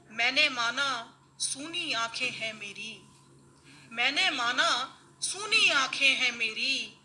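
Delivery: measured mushaira verse delivery; ghazal recitation. Acted. (मुशायरे में ग़ज़ल पढ़ने का अंदाज़)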